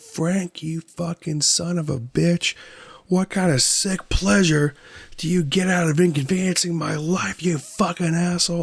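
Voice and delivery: mock high-pitched, raging, all-out screaming outburst. Retelling yelling at a ghost after picks spilled: retelling own yelling. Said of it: "And I started yelling".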